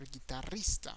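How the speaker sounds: "guitarrista" with a trilled rr; Spanish "guitarrista", gee-ta-RREES-ta; rolled double R. Shown as a demonstration. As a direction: roll the R in "guitarrista", stress REES. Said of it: "You have that double R there".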